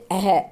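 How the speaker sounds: अह with an h-like release; demonstrated visarga sound. Shown as a demonstration. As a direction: say अह ending on an audible "ha" sound. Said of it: "इसका उच्चारण है की तरह".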